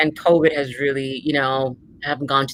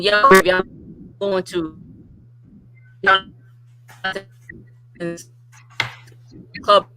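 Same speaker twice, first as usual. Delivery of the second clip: uneven volume. Real, not acted. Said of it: "the audio is kinda cutting out".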